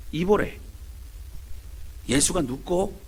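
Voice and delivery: lightly voiced Gyeongsang dialect old woman asking; a hint of a curious Gyeongsang grandmother; Gyeongsang granny dialect. Quiet granny asking the others, mild Gyeongsang dialect. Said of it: "경상도 할매들의 대화입니다".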